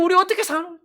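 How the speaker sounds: high-pitched wail of protest; mock despairing complaint. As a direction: act out a people bemoaning their lot. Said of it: "이래가지고".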